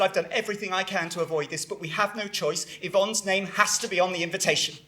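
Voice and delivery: careful appeal. Acted. Son warning his mother about the invitation, soft and careful. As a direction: break it gently, keeping the voice down.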